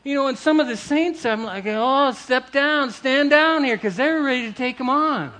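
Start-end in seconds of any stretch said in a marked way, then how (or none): 1.7-3.8 raised voice, higher and louder; slow, loud order to back off; acted urgent call. Preacher retells calling eager saints back, urgent raised voice.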